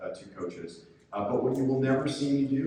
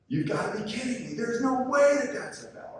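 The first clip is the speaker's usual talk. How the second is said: higher, louder mock shout at the official; mock outraged yell; 13 semitones higher than usual. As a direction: play the coach yelling across the gym, half in jest. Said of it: "screaming it out loud for everyone".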